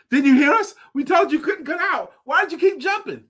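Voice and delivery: frogs demanding why. Acted. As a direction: press him for an answer. Frogs question the escaped frog.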